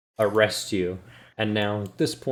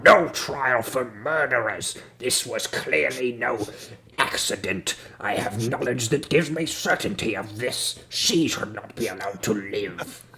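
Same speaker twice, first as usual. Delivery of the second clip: booming voice. Acted. Booming guard refuses the murderer a trial, stern proclamation. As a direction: pronounce it like a stern, booming official. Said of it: "guy with the incredibly booming voice".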